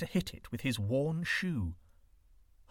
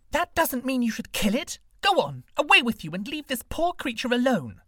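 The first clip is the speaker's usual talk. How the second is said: scolding woman; 12 semitones higher, 8 dB louder than usual. A narrator's reading.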